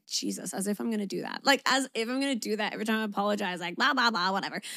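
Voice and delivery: scoffing inner voice, partly rushed; recalled skeptical grumble; retold dismissive thought. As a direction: brush it off as if it's ridiculous. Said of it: "I remember thinking".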